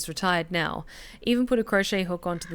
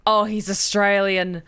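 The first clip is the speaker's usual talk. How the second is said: surprised realization; 4 dB louder than usual. Real, not acted. Realises the character is Australian.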